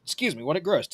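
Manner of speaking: talking through hiccups; hiccuping mid-sentence. Real, not acted. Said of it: "Sorry, I have the hiccups".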